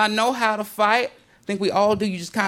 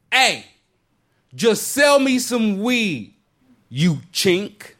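mock yell; 3 semitones higher, slower than usual. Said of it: "just yell out to the clerk".

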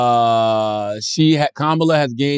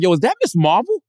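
high, fast excited rush; higher and quicker, thrilled; excited gushing; 8 semitones higher, faster than usual. Retold or imitated. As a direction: gush like a fan spotting a hero. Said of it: "I was like".

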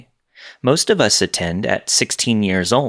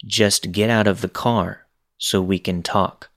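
monotone. Retold or imitated. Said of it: "in that monotone voice".

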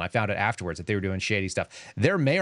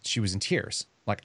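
normal talking voice

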